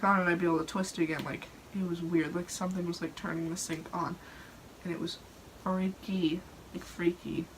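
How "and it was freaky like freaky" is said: spooky whisper; playful spooky voice. Acted. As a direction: whisper it like a ghost story.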